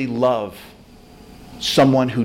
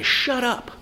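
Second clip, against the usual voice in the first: crowd yelling; 7 semitones higher than usual. Retold or imitated. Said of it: "the whole city is yelling at this guy".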